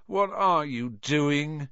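slow, drawn-out moan; a miserable plea, dragging the words. Acted. Ron watching Hermione, a slow miserable moan. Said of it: "moaned Ron".

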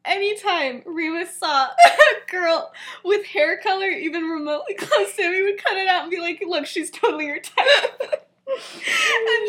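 high voice, cracking up; telling through laughter. Real, not acted. Telling a friend the best part, laughing helplessly. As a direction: struggle to get it out while laughing.

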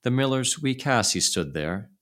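ordinary delivery

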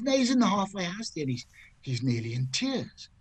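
mildly mock-distressed wife, starting high; worried wife. Wife explains her husband's state to golfer, mildly distressed. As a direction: report it with imitated concern, pitch falling away. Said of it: "She says".

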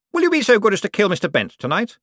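condescending lord to servant; Cosmo's voice. Acted. To his butler, Cosmo's lofty patronizing voice.

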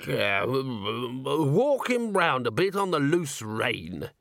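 slow, drawling horse doctor; lightly voiced rustic horse doctor. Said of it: "he said".

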